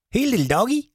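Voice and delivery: cooing at an alligator mistaken for a dog; mock blind man. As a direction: coo it at the alligator like a puppy.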